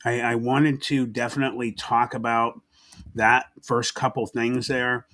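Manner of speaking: words around a throat lozenge; lozenge in mouth. Real, not acted. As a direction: talk with a lozenge tucked in your cheek. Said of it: "I got a lozenge in my mouth".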